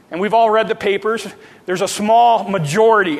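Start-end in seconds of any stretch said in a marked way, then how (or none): 1.7-3.2 small said with a firm push; stress on small. Shown as a demonstration. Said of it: "I'll emphasize the word small".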